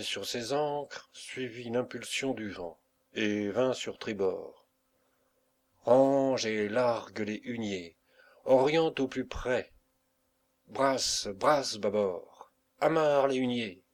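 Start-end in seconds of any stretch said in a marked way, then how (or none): 5.8-13.8 shouted orders. Acted. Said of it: "cria encore Carnot".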